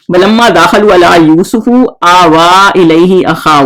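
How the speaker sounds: slow, measured recitation of the verse; a teacher chanting the Arabic verse for students; Quran recitation. Shown as a demonstration. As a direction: recite it slowly, drawing out the vowels.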